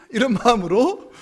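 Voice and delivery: ordinary talk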